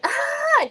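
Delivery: high, loud mock squeal "ah"; mimicked laughing squeal. Mimicking the girlfriend who found it hilarious, high mock squeal. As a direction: squeal it out high, imitating her. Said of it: "she was just like".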